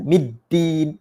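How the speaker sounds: "middin" with a hard, heavy d. Shown as a demonstration. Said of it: "kalau sebut keras tu".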